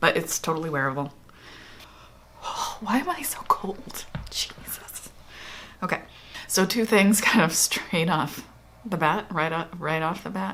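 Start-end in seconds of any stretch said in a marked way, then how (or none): 2.8-4.1 slow, pitched-up, shuddering, shivering-with-cold voice. Talking through a product's undertone, suddenly shuddering from cold.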